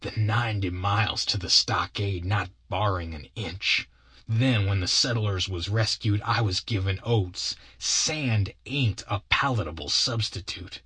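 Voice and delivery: lightly voiced aggrieved partner, solemn; long-suffering Bill. Bill confesses he sent the boy home, mildly mournful. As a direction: confess with a touch of wounded dignity.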